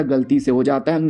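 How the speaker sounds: mock disbelief rising on है; incredulous. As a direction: throw the excuse back in disbelief. Son repeats in disbelief.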